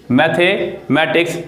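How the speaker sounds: मैथमेटिक्स said slowly with a rising end; slow rising teacher's repeat of मैथमेटिक्स. Shown as a demonstration. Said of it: "जैसे कि".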